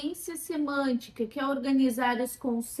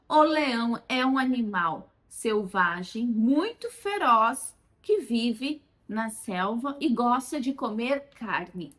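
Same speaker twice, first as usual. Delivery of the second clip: slow, emphatic model sentence, louder on muito feroz; richer example sentence; 3 dB louder, slower than usual. Shown as a demonstration. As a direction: model the expanded sentence slowly. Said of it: "Por exemplo". (frase modelo devagar, enfática)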